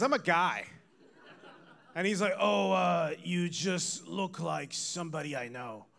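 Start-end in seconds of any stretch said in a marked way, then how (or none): 2.4-5.9 hesitant, slowing and sinking away; awkward backpedal. Retold or imitated. Stranger backing out of mistaken greeting.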